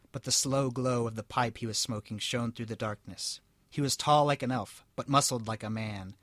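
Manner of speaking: steady storybook reading voice; story narration. A narrator's reading. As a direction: read it out like a tale. Reads story aloud.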